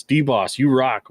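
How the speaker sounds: all-caps enthusiasm. Acted. Host reads a fan's all-caps comment, mildly emphatic. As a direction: read it out like it's in capitals. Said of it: "in all caps".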